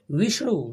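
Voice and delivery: विष्णु with the stress on वि; stress on first syllable. Shown as a demonstration. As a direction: lean on the opening वि of विष्णु. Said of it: "वी पर जोर".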